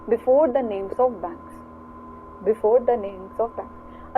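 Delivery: very slow, every word separated; slow dictation. Shown as a demonstration. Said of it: "teacher dictates rule slowly".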